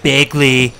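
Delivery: lightly voiced presidential impression, drawn out; Trump. Streamer demonstrating the Trump voice for a friend, drawn-out impression. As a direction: stretch the catchwords with mock bombast. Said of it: "when you're doing the Trump voice".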